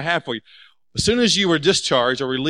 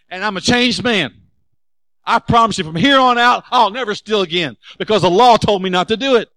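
mock earnest vow; 6 semitones higher, 6 dB louder than usual. Pastor's mock vow to congregation.

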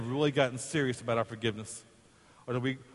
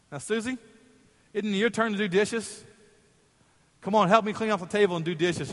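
grandma asking sweetly; 7 semitones higher than usual. Retold or imitated. Grandma calls kid to dishes.

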